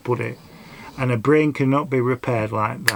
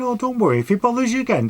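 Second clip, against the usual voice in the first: high, sweet reassuring voice; reassuring reply; 11 semitones higher, faster than usual. Retold or imitated. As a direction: soothe her, pitched right up. Reassuring her after the row.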